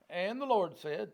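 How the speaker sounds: usual speaking voice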